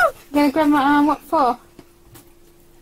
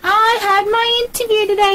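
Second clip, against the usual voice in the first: excited shout; 6 semitones higher than usual. Real, not acted. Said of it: "you told me".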